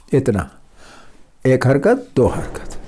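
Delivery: one beat, then two beats, the last one whispered off; vowel length demo. Shown as a demonstration. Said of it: "یعنی دو حرکتیں".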